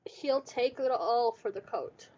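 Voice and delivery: whisper. Real, not acted. DM losing voice, whispered reply.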